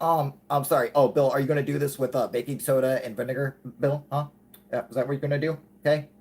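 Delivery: mock-sweet needling of an opponent; acted condescension. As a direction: talk down to him in a retold argument. Mocking a TV debunker in retold argument.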